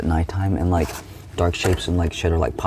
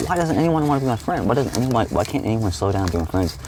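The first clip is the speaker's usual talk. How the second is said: put-on much higher, plaintive childlike whine; hurt whine; 5 semitones higher than usual. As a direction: plead it like a rejected kid. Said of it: "I'm just like".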